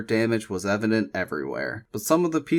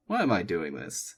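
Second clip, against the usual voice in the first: inner thought; 4 semitones lower, 6 dB quieter than usual. A narrator's reading. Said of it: "she thought".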